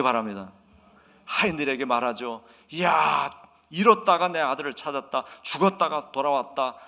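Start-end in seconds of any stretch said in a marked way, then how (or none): 2.7-6.8 loud, exclaiming father's cry; elated father. Acted. Father to servants about his returned son, elated. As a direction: burst out louder, announcing great news.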